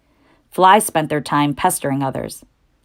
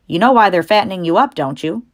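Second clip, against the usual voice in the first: put-on old sheep voice; 2 semitones higher, 3 dB louder than usual. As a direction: warn him like a wise old sheep. Old sheep hints at doom.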